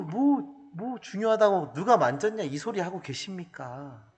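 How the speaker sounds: mild mock exasperation; a touch of whining complaint; exasperated disciples. Preacher acting disciples complaining about the crowd, mildly exasperated. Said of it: "제자들이 그렇게 얘기하고 있는".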